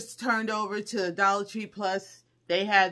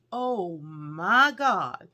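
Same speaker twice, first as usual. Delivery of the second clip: amazed; much slower than usual. Retold or imitated. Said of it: "I was like".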